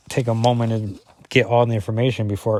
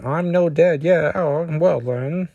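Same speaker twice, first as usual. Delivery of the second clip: higher-pitched, hammed-up Scottish accent; bad Scottish accent; 6 semitones higher than usual. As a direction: do a horrible Scottish impression. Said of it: "I have a horrible Scottish impression".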